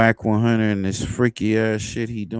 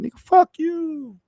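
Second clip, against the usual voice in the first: mocking tough-talk impression; 4 dB louder than usual. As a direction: shoot way up in pitch, imitating his usual comeback. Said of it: "usually he be like".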